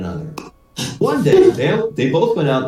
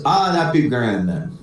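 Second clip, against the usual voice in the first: lightly voiced Irish brogue; Irish accent; 2 semitones lower than usual. The other Paddy accepts the plan, Irish accent. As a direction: agree easily in an Irish lilt. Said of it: "try out my Irish accent".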